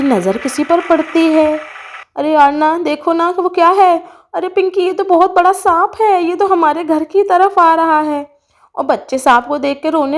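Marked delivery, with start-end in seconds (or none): 2.2-8.3 put-on higher, urgent little-kid voice; lightly voiced child in alarm. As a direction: cry out as a child spotting danger. Children spot a snake.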